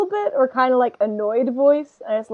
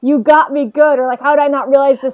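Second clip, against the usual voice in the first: louder mock outrage at being fooled; playfully indignant, had by a joke; good-natured mock exasperation; joke anger; 7 dB louder than usual. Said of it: "more like joke anger".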